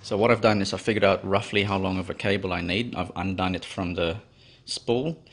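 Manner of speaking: normal talking voice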